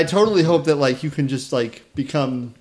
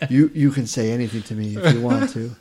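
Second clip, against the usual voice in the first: slow sexy voice. Pretend. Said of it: "slow, sexy voice".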